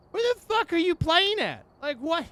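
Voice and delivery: real outraged shriek; furious yell. Real, not acted. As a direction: blast it at the game in disbelief. Furious at the wrong ghost.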